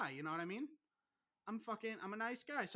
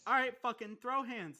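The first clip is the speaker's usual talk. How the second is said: mock challenge; 4 semitones higher, 7 dB louder than usual. Mock fight challenge between friends.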